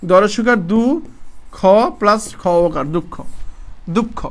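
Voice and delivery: "দুঃখ" with the খ doubled; doubled-consonant demo. Shown as a demonstration. Teacher showing the doubled খ in "দুঃখ", demonstrating it. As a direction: spell out "দুঃখ" with pauses, then say it whole. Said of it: "খ দুবার উচ্চারণ হবে".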